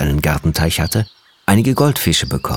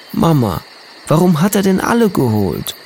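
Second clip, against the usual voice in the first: sobbing; 11 semitones higher than usual. A narrator's reading. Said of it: "schluchzte er".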